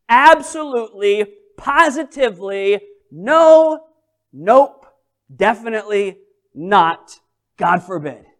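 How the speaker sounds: stack each no harder; loud string of refusals; emphatic denial. Acted.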